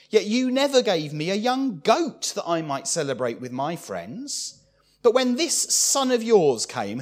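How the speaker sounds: sharp, indignant son talking back; offensive retort. Acted. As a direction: throw it at your father with resentment. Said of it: "how offensively he speaks to his father".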